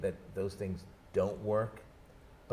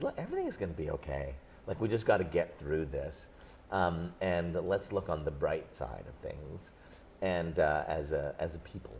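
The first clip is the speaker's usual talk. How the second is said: reassuring optimist; 4 semitones lower than usual. Retold or imitated. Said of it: "the optimist in me says".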